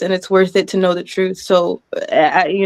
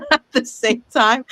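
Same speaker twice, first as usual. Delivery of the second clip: laughing through the words; a giddy laugh breaks into the sentence; happy laugh; 3 semitones higher than usual. Real, not acted. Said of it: "I am pissed, but I'm so happy".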